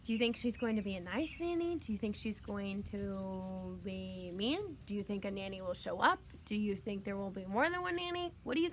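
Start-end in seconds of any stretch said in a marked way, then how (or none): 1.8-6.2 lower, much softer and slow; ominous question. Shown as a demonstration. Teacher asking students about a mean nanny, ominous and hushed. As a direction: make the mean nanny sound sinister. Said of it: "teacher asks about nanny".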